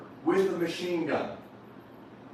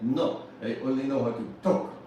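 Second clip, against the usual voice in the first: lightly imitated Argentinian accent, lower; a hint of a thick Argentinian accent in English; 4 semitones lower than usual. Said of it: "this thick Argentinian accent".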